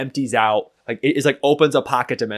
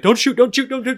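raised-pitch squeaky plea, a little louder; lightly pitched-up panicked begging; helium voice; 13 semitones higher, 6 dB louder than usual. Retold or imitated. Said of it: "and I can't do the helium voice".

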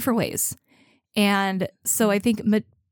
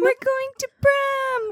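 high, slow giddy squeal; excited squeal; slower than usual. Real, not acted. Excited singsong.

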